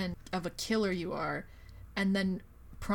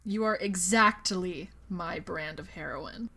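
mock iconic line; 5 semitones lower, slower than usual. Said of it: "they say the iconic line".

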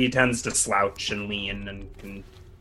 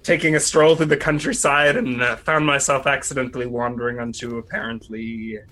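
mock innocent rogue; 3 semitones higher than usual. Thief stammering innocent excuses.

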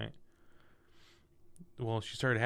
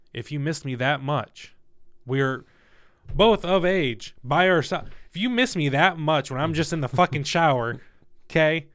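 exasperated rant; 3 semitones higher, 7 dB louder than usual. Retold or imitated. Venting at crying girlfriend.

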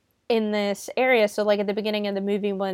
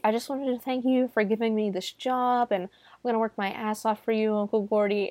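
softly voiced, lightly imitated gratitude; a touch of sweet, earnest thanks; imitated sweetness; 4 dB quieter than usual. Jeff thanking his uncle for the job, mildly sweet imitation. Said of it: "Jeff is actually really sweet".

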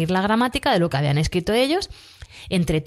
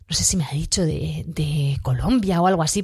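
whispered aside; 3 semitones lower than usual. Real, not acted. Unsure aside about the accent.

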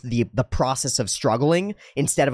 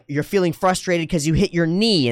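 raised, emphatic naming of a feeling; validating parent; 7 semitones higher, 3 dB louder than usual. Acted. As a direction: act a parent naming it for a child. Voicing parent naming child's feeling.

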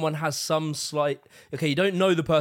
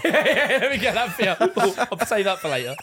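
laughing pretend; 2 semitones higher than usual. Acting out wiping friend's face, laughing.

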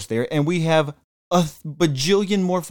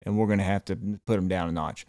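mock scheming; 5 semitones lower, 6 dB quieter than usual. Voicing rival countries plotting.

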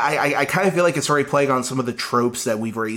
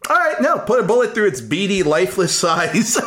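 hammed-up ruthless rant, pitched up; mock-vicious; 7 semitones higher than usual. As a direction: play it like a gleeful villain. Ranting mock-vicious take on AI movie.

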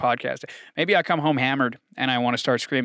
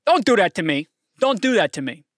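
louder, higher pained plea; mock pleading; 5 semitones higher, 6 dB louder than usual. Real, not acted. Fan hurt by a trade rumor, pleading loudly. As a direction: beg the report to stop.

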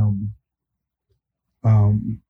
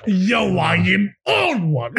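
laughing; 7 semitones higher, much slower than usual. Real, not acted. Laughing fit.

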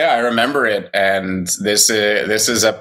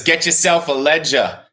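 put-on New York accent; 5 semitones higher than usual. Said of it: "He's got his New York accent".

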